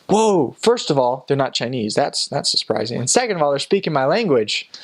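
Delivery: taken aback, pitch jumping up on each new point; mock astonishment. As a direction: imitate a stunned local working it out. Locals' astonished reaction, acted out.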